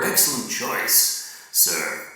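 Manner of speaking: slow, whispered waiter's compliment; mock the fawning waiter, hushed and drawn out; whispered mock congratulations from a small-town waiter. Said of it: "trained by the management to congratulate you".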